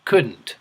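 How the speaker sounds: couldn't repeated clearly with a falling tune; couldn't modelled for the class; model word couldn't. Shown as a demonstration.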